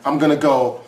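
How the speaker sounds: mock killer backing out sheepishly; hammed-up sorry killer; apologetic killer. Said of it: "And they're like".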